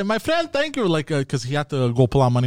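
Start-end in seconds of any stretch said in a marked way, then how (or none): 0.0-0.9 high-pitched mom imitation, lightly voiced; imitating mother yelling. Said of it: "my mother yells out".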